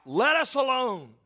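a demon crying out to Jesus in the synagogue. Acted. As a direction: plead like a cornered demon. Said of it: "the demon begins to cry out".

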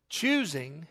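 "choosing" set apart and drawn out; emphasis on choosing. Real, not acted. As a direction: lean on the word "choosing", low and deliberate. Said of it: "I emphasize that word".

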